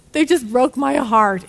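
gasp, then a melodramatic wounded parent; hammed-up dismay after a sharp gasp; mock heartbreak. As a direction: play shocked and heartbroken, hammed up. Mocking overdramatic parents' shock.

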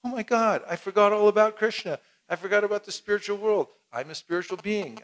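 mock sudden realization. Passerby suddenly remembering Krishna, mock excited. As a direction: act a sudden awakening. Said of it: "you'll see a light go off and go".

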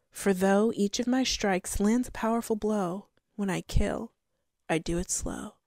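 measured recitation of a riddle poem; riddle reading. Real, not acted. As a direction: read the riddle aloud like a recited verse. Reads the riddle aloud.

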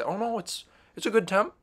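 polite lie squeaked out under steaming water; mock polite squeak. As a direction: insist it's fine in a tiny high voice. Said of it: "You're gonna say".

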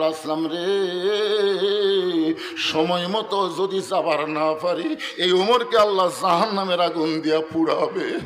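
long-drawn plaintive chant; mildly mournful chanted appeal; retold tearful plea. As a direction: plead in a slow melodic lament, stretching the call. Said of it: "Omar কান্দল".

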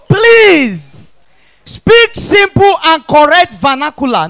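high, loud, drawn-out begging; exasperated plea. Acted. Comedian begging the crowd to speak simple English, exasperated. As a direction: burst out loud, stretching each plea.

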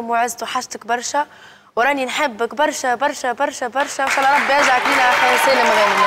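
tearful message to brother. Real, not acted. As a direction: speak to him through tears. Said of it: "ما تبكيش". (رسالة باكية للأخ الغائب)

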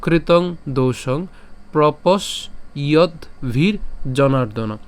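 slow, careful chant of the second line; slow recitation. Shown as a demonstration. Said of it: "second লাইনটা বলি". (ধীর লয়ে দ্বিতীয় line পাঠ)

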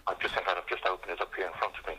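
out of breath after a walk into town. Real, not acted. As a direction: talk while catching your breath. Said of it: "I'm just catching my breath".

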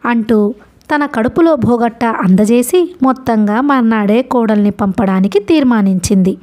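ordinary delivery, nothing marked

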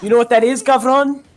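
animated, hammed-up Chicano storyteller; put-on cholo accent. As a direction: spook them in a cartoon cholo accent. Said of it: "I lost the accent a bit".

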